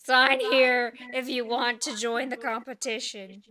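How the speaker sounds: gruff goblin with the volume reined in; lightly voiced British goblin, at normal volume; small gruff voice. Goblin organizer inviting sign-ups, gruff but controlled. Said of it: "small, gruff voice".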